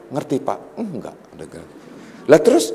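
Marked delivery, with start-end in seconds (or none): 0.1-0.6 a low aside from the wife, much softer; wife checking on her husband in a hushed aside; hushed wife's question. Retold or imitated. Wife nudges him, asking quietly. 0.8-1.2 a barely voiced, much softer "Enggak"; husband quietly admitting to his wife he didn't understand; hushed no.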